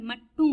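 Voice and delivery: मट्टू ending in an "oo" sound; silent final m. Shown as a demonstration. Teacher explaining the silent letter, मट्टू ending on "oo". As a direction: drop the m, end मट्टू on "oo". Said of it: "ऊ sound आनी चाहिए".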